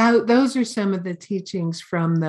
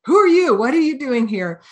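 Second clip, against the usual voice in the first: sharp, high, loud challenge from a disturbed hermit; startled yogi; 5 semitones higher, 4 dB louder than usual. Retold or imitated. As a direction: snap at the intruder who burst in. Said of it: "the yogi's like".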